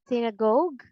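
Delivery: second synagogue as THIN-uh-gohg; wrong sounds. Shown as a demonstration. Teacher offers possible readings, wrong sounds. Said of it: "How do you read this word?".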